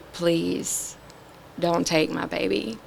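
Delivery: softly retold plea to God; pleading prayer. Mother recalls begging God for her baby, hushed pleading. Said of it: "just begging God".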